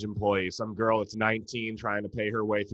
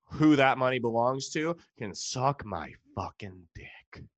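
ordinary talk, nothing marked

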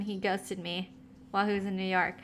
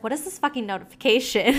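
baffled; 3 semitones higher, faster than usual. Retold or imitated. Retelling her confusion at notification.

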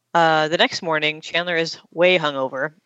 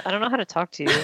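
laughing; 3 semitones higher, 4 dB quieter, much faster than usual. Retold or imitated. Quoting Phoebe while laughing.

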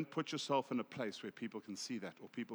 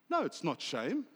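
mildly indignant retold correction, pitched higher; 4 semitones higher than usual. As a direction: imitate an offended objection, rising at the end. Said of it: "she was, like, indignant".

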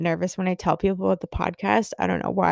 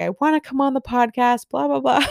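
higher, bubbly imitation of an eager friend; gushing friend; 5 semitones higher than usual. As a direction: gush like she can't wait. Friend's eager offer, retold.

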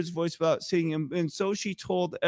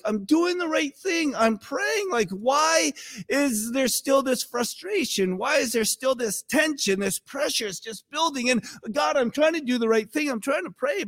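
frustrated pleading; 6 semitones higher than usual. Retold or imitated. Voicing frustrated Christians to God.

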